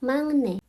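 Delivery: "mangne" said slowly and clearly as Korean; mangne, ng before n; Korean pronunciation. Shown as a demonstration. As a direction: model "mangne" with the n nasalised to ng. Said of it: "menurut aturan bacim itu bacanya mangne".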